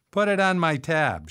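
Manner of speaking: high, loud quip; lightly amused. A narrator's reading. Woman taking bacon off a plate, mock-laughing quip. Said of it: "she said, laughing".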